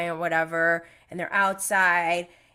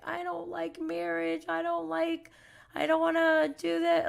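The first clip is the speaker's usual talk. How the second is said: mimicking Logan; 9 semitones higher than usual. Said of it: "He's like".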